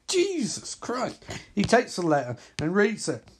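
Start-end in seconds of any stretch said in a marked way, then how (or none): 0.1-1.2 slow whispered exasperation; whispered aside. Real, not acted. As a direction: breathe it out, barely voiced, shaking your head. Exasperated aside after the joke.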